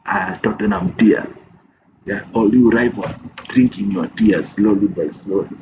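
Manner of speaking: loud gloating at rivals. Real, not acted. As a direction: rub it in to the rivals, loud and proud. Gloating at rival clubs' fans.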